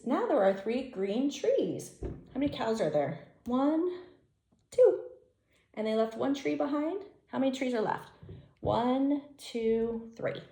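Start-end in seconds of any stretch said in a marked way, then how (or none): 3.5-5.0 high and loud excited count; thrilled counting. Real, not acted. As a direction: pop the number out with delight.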